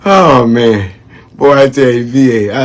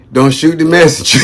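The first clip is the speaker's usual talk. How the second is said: laughing quote; 4 semitones higher than usual. Retold or imitated. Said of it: "Haley tell me, she say".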